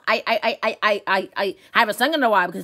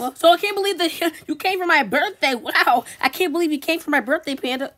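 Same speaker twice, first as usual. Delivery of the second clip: higher-pitched, lightly giddy delight; excited gushing; 5 semitones higher than usual. Acted. Host greeting Panda at the birthday, excited gushing. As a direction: gush at the guest, a laugh slipping in.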